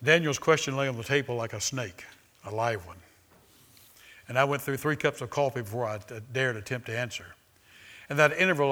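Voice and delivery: reading a book passage aloud to the congregation; measured, deliberate reading voice. Acted. Preacher reads from a book to his church, in a measured voice.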